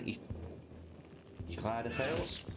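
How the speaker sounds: sniffly, full of cold; sniffling. Real, not acted. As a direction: talk through a sniffle with a cold. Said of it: "excuse the sniffling".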